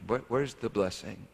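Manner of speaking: ordinary delivery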